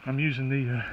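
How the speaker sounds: shaky walking voice. Real, not acted. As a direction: voice jolted by each step. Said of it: "I'm sorry for the shaking, but I'm going uphill".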